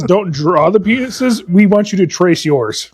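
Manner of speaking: drawn out, slow words; slow relayed quote. Retold or imitated. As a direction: spell it out slowly. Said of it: "Tony says".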